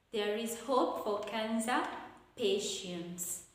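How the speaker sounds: "cancer" held up, then "patients" dropping; falling statement intonation. Shown as a demonstration. Teacher repeats the statement example, falling on the last word. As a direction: pause before a falling "patients". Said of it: "take a falling".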